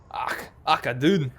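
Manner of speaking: put-on jokey stab at a Scottish accent; half-sure mock Scottish; attempted Scottish accent. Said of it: "can't do Scottish".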